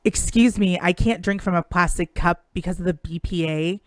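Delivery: loud, huffy mock yell at a bartender. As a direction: yell it like an entitled customer. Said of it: "yelled at a bartender".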